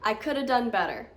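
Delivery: "could have" toward "coulda"; American reduced. Shown as a demonstration. Teacher demonstrates the American version. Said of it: "Now, with the American accent".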